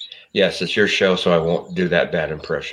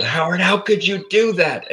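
retold outburst; 11 semitones higher than usual.

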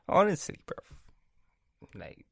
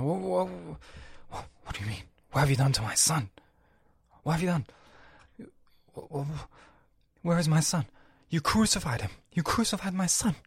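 higher-pitched, accusing God; God impersonation; 6 semitones higher than usual. Acted. God accusing a man in the crowd, mock outrage. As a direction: play God confronting someone in the crowd. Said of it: "impersonates God".

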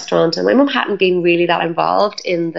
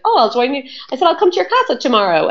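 eager yes; 7 semitones higher, faster than usual. Retold or imitated. Eager reply to yoga teacher.

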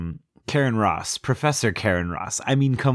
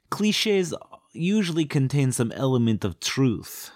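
put-on slow, higher stagey Romanian accent; mock foreign accent; 5 semitones higher than usual. Romanian answering the disbelieving professor, slow mock accent. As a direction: draw it out in a fake Romanian accent. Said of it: "what I'm doing with that accent".

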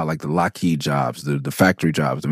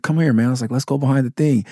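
higher, gleeful beckoning; eager invite; 7 semitones higher, faster than usual. Retold or imitated. Rapper luring the kid behind the building, grinning invite. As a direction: lure him round the back, grinning.

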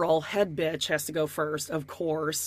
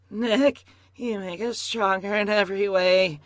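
a hint of the forced bride reading her vows; Jennifer voice. Podcaster mocking Jennifer's wedding vows, a little forced and slow. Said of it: "I have to get in my Jennifer voice".

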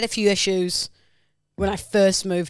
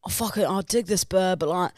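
quick put-on Essex accent; Love Island accent; much faster than usual. Contestant wanting to pull her, Essex accent. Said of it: "the Essex one or whatever".

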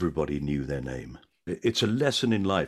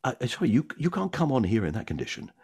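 a touch higher, flustered refusal; lightly voiced bus conductress; 5 semitones higher than usual. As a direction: turn him away politely. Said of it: "She said".

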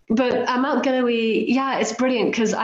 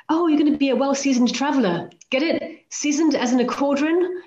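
teasing husband; 6 semitones higher than usual. Retold or imitated. Mimicking husband's teasing jokes.

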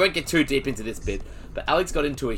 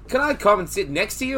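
higher-pitched attempt at an Irish lilt; shaky go at Irish accent; bad Irish accent; 8 semitones higher than usual. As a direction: imitate an Irish woman, not very well. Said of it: "I can't do an Irish accent".

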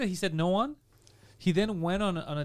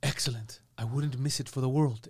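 theatrical British gentleman; 3 semitones lower than usual. Retold or imitated. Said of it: "he's like this".

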